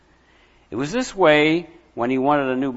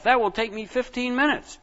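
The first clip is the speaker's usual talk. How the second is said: muttering; 5 semitones higher than usual. Acted. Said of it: "Aaron muttered to himself".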